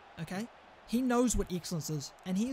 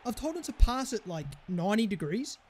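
high, loud exasperated tirade; real furious shouting, easing into complaint; frustrated rant; 4 semitones higher, 5 dB louder than usual. Real, not acted. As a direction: start screaming, then rant on in high pitch. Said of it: "I can hear your frustration".

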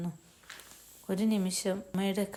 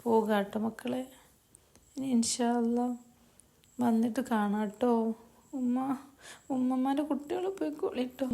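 lightly voiced mother, slightly raised pitch; mother saying goodbye; 3 semitones higher than usual. Mother taking leave of her children before the flight, lightly acted farewell. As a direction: bid the children a gentle, lilting farewell.

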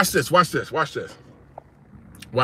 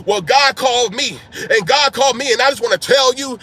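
self-important; 4 semitones higher, 5 dB louder than usual. Retold or imitated. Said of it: "trying to be".

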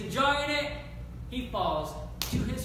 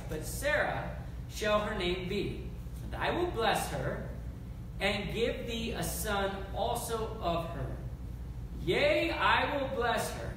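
scripture reading. Acted. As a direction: read God's words with weight. Reads scripture aloud.

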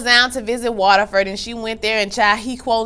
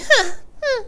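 mock scoff. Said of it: "And she like".

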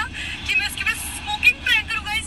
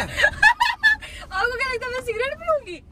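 laughing; 5 semitones higher, much slower than usual. Real, not acted. Reveals the prank, laughing.

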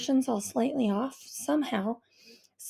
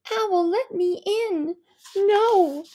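put-on higher, pleading girl at the door; a girl begging her mom to let her be; voiced teen girl; 8 semitones higher, 6 dB louder, much slower than usual. A narrator's reading. Daughter shouting through the door at Mom, upset. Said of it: "Owl pleading with Mom at door".

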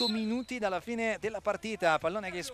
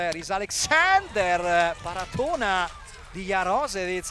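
excited commentary; 7 dB louder than usual. Real, not acted. Big save by the keeper.

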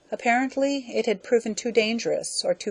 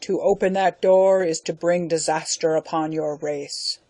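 booming voice; 3 dB louder than usual. Acted. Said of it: "a mighty voice roared from within".

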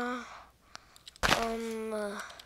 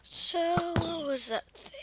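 whisper; 3 semitones higher, 4 dB quieter, slower than usual. Real, not acted. Wary whisper in game.

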